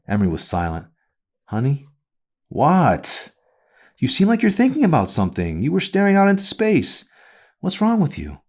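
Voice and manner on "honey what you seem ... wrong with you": higher, prying mother questioning her daughter; a nagging mother, pitched up and pressing; mother's voice. A narrator's reading.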